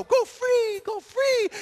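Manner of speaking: loud, very high call; high-pitched cry. Acted. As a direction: call out high, setting the doves free. Acted Jesus freeing the doves.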